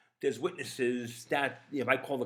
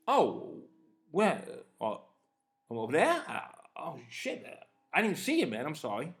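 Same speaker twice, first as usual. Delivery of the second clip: higher-pitched, innocent "didn't notice" act; surprised apology; 4 semitones higher than usual. Retold or imitated. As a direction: replay a sudden, disarming realization. Acts out his surprised apology.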